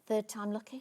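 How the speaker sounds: playful whisper. Real, not acted. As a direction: whisper it half to yourself. Quiet aside while retrying.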